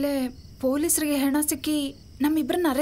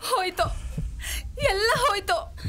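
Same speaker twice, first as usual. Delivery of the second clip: crying lament; 4 semitones higher than usual. Acted. Wife laments her ruined life.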